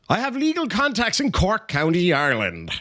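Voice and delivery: put-on light American accent on Cork County; mild mock American accent. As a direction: say it like a Yank reading a letter. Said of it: "in a kind of an American accent".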